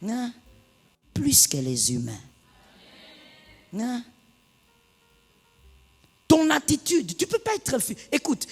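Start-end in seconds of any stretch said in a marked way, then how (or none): 0.1-4.0 breathy whispered repeat. Shown as a demonstration. Pastor whispering the key phrase to the congregation, whispered. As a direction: whisper it for emphasis. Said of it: "repeated whisper".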